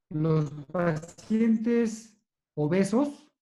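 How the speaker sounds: slowly, with drawn-out words and gaps; deliberately slow. Real, not acted. Surgeon answering a colleague's question about obese patients, deliberately slow. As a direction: spell it out slowly, word by word. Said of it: "lo voy a decir despacito".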